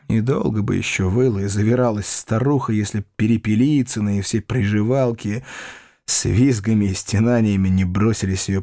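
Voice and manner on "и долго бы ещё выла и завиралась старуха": plain reading voice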